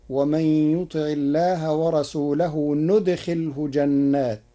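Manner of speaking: recited verse, noon replacing ya in ندخله; ندخله with initial noon. Shown as a demonstration. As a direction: begin the verb with n in ندخله. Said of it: "يدخله بالنون".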